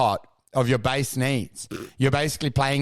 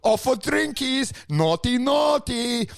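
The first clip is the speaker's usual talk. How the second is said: mocking onlookers; 7 semitones higher than usual. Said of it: "And they're like".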